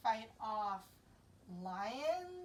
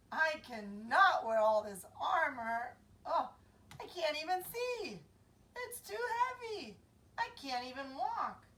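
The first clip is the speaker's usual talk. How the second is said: whiny David; 3 semitones higher, 5 dB louder than usual. Acted. David complains to Saul about the armor, whining. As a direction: complain like a kid weighed down. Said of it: "says David".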